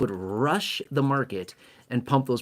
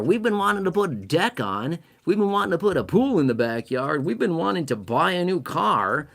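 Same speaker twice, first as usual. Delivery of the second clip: higher, eager mock homeowner voice; 5 semitones higher than usual. Homeowner telling spouse to cash out, giddy mock voice. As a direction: play a giddy homeowner itching to spend. Voicing homeowners listing purchases.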